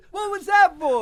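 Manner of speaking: sketch line. Acted. Replaying sketch lines.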